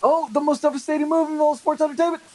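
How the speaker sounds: high, excited mock ringside call; wrestling commentator. Calling the move for friends watching, mock commentator hype. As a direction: call it like a hyped wrestling announcer.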